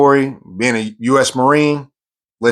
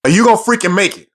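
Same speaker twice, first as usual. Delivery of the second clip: drill instructor yell; 6 semitones higher than usual. Retold or imitated. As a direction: press him hard for an answer. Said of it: "He says".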